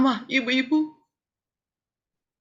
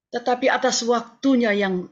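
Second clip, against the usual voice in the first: fighting tears, moved; choked with emotion. Real, not acted. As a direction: voice catching, holding back tears. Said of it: "Mohon maaf, saya terharu". (suara tercekat menahan haru)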